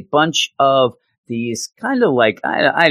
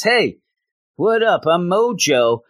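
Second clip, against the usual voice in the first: sleazy Mojo; 7 semitones higher than usual. Retold or imitated. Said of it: "he shows up and says".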